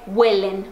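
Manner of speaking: "huelen" stressed at the start; "huelen", strong first syllable, weak ending. Shown as a demonstration. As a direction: put the weight on "hue" in "huelen". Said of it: "a sílaba tônica tá no começo".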